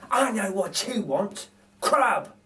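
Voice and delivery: lightly voiced thief; knowing burglar. Narrator voices Bill guessing what baby wants, knowing. Bill's voice in read story.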